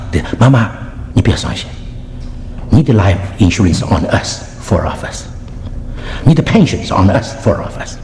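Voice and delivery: low, measured reassurance; retold comforting son. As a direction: comfort your mother gently, with pauses. Son comforts tearful mother.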